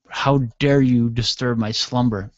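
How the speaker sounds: slow, mildly indignant sleeper; the Nothing. Acted. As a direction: pronounce it slowly, like a disturbed slumberer. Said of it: "then Nothing sends me an email".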